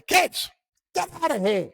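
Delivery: a parent sending the kids out, mock-stern; shooing the kids.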